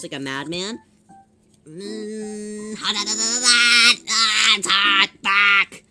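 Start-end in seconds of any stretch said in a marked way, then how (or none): 1.6-5.8 loud yelps of pain; pained yelling. Real, not acted. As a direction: yell from burnt fingers. Hot glue burn.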